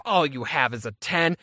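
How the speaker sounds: imitated disbelieving stranger; mocking echo. Seller scornfully repeats the excuse back.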